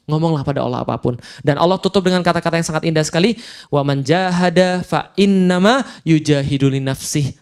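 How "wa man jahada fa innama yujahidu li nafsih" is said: slow chanted Arabic verse, lightly intoned; Quran recitation. Acted. Preacher reciting the verse to the congregation, slow chant.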